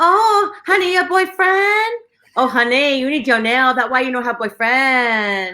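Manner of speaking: comedian's Asian nail salon lady impression; Asian accent. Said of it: "the accent where she's like".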